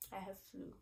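hoarse, squeaky voice from the flu. Real, not acted. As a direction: talk through a sore, squeaky throat. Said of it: "please excuse my squeaky voice".

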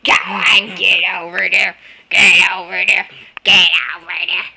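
loud, fast firm order; firm command. Real, not acted. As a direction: shoo the dog away. Commanding the dog.

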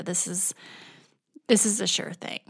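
hushed whispered aside; whispered confident inner thought. Pretend. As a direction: breathe it like a secret.

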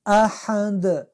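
احد with final د bounced; recited احد with qalqala. Shown as a demonstration. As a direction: slowly end احد with echoing د. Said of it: "دال رنگش آبی شده".

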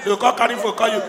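usual speaking voice

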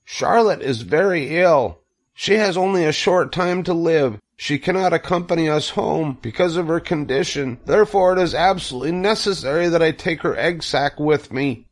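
high, pleading piglet voice; urgent cry. A narrator's reading. Wilbur begs Templeton to fetch the egg sac, urgent cry. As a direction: beg desperately in a high voice. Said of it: "cried Wilbur".

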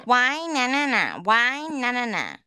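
taunting singsong whine; whiny childish taunt; mocking whine. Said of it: "whining is like".

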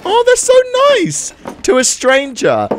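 high-pitched squealing coo, easing down; gushing. Pretend. Gamer moved by family feeding a stranger, high gushing. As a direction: gush in a squeaky, touched voice.

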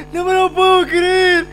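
slow, high, loud disbelief; exasperated yell. Real, not acted. Gamer killed by the game, exasperated high yell. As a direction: wail it in disbelief.

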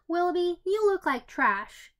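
gleeful little brother teasing; bright teasing. Acted. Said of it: "Tommy said brightly".

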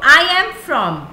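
I am from, slow and loud; emphasized phrase. Shown as a demonstration. Teacher drills students on the phrase, loud and slow. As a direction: stress "I am from" slowly and loudly. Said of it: "इन बातों को".

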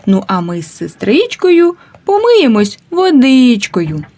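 lilting, sing-song nursery rhyme recital; children's rhyme. Acted. Teacher reciting a washing rhyme to children. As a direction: recite it like a rhyme for little kids.

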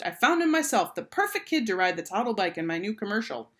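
big news declared to the room; announcing. A narrator's reading. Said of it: "He announced".

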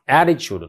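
attitudeのaを強く; 頭を強く言う; 先頭に強勢. Shown as a demonstration. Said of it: "戦闘に強いストレス". (第一音節に強勢)

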